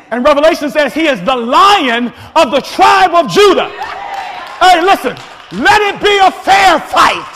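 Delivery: rising, shouted pulpit preaching that hammers each point; full-force preaching. Acted. Preacher drives home devil lion.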